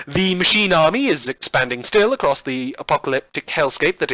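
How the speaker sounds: over-the-top newsreader voice, bright and bouncy; campy radio news broadcast; campy news anchor. Acted. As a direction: read the bulletin like a hammy TV anchor. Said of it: "this ridiculous campy tone that I've been putting on".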